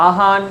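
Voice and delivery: আহান said as plain a-han; common mispronunciation. Shown as a demonstration. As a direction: say আহান without any o-glide. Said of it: "যা পারি উচ্চারণ করি". (আহান, ও ধ্বনি ছাড়া ভুল উচ্চারণ)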